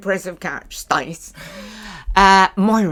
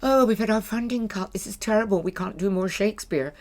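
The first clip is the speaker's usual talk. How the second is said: mock complaint; 2 semitones higher, 4 dB quieter, faster than usual. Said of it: "theatre companies that are going".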